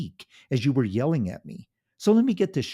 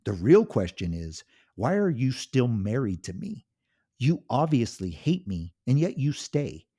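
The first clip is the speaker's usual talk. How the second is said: loud, high furious yelling; a husband exploding at his cruel wife; angry shout; 5 semitones higher, 5 dB louder than usual. Acted. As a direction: finally fight back, full volume. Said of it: "He shouted".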